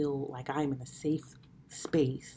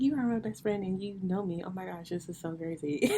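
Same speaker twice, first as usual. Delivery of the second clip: excited gushing; 4 semitones higher than usual. Retold or imitated. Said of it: "I was like".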